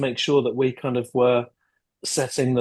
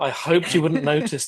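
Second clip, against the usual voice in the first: laughing mock echo; 3 semitones higher than usual. Teasing repeat of Tom's excuse.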